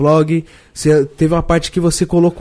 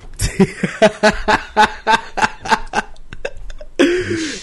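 laughing; 4 semitones higher than usual. Real, not acted. Laughing at the Mítico topic.

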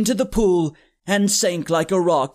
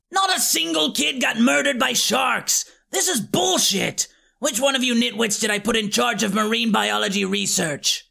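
a lightly voiced witch boss, yelling at first; angry witch; 2 semitones higher than usual. Chaos Witch, scolding her demon minions, irritated yell.

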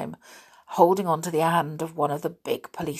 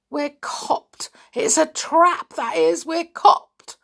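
high, panicked squealing; 11 semitones higher, 5 dB louder, slower than usual. A narrator's reading. Mister Stick caught by the police, squealing. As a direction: squeal like a cornered rat. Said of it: "squealed like a rat caught".

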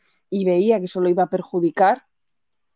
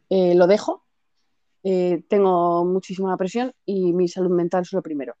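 calm. Retold or imitated. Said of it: "Y dice, así, muy tranquila".

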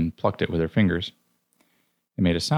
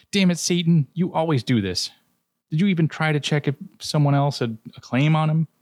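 exasperated Loki; 3 semitones higher than usual. Acted. Loki berating Satan and Cthulhu over a soul, exasperated. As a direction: scold them like a fed-up trickster. Loki scolding the other gods.

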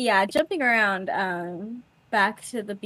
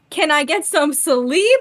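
whiny plea; 6 semitones higher, 8 dB louder, slower than usual. Retold or imitated. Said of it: "he's like".

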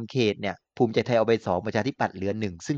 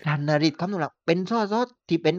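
higher-pitched southern Thai accent; southern Thai accent, pitched up like a campaign speech; 5 semitones higher than usual. Shown as a demonstration. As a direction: put on a southern Thai dialect on request. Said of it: "ขอสำเนียงใต้ ขอสำเนียงใต้".

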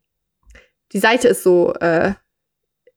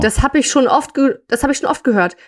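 read-aloud character line, slightly raised pitch; story dialogue. A narrator's reading. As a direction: voice the man explaining, as in a story.

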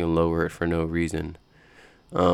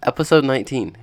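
"Episode nineteen" laughed out, higher and louder; laughing; 7 semitones higher, 5 dB louder than usual. Real, not acted. Podcast host retaking the intro, laughing. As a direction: giggle through "Episode nineteen". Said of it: "How many times have I said that?".

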